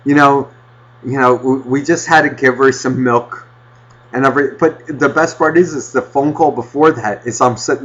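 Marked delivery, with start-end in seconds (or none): 0.0-4.5 calm and simple. Retold or imitated. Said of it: "it's just like".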